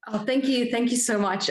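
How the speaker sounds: high, moved thank you; thanking while overwhelmed; a touch breathless with emotion; emotional thanks. Real, not acted. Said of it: "a little bit emotional".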